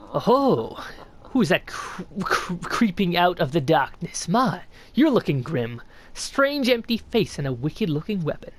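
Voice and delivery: lightly voiced sly old snail, curious; a hint of a creaky old mystic greeting a stranger; snail shaman voice. Streamer reading the shaman's greeting to the knight, lightly voiced old mystic.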